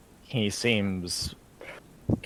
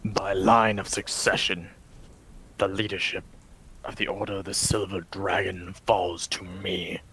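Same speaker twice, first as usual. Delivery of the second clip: brooding vampire lord. Acted. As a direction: speak as a weary, cursed lord in a hushed voice. Vladimir claims leadership in character.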